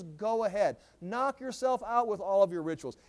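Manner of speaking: mock encouragement to carry on; sarcastic. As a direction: egg them on with sarcasm. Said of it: "This is sarcasm".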